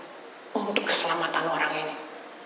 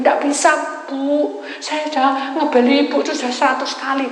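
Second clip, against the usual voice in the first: exasperated; 8 semitones higher, 7 dB louder than usual. Retold or imitated. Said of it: "bilang gitu".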